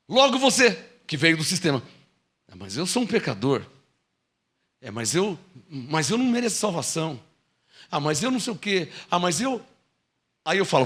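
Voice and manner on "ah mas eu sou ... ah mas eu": softer, lower whiny excuse voice; mock doubting believer. Believer mumbling excuses to the preacher, softly. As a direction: mumble the excuses like a guilty sinner.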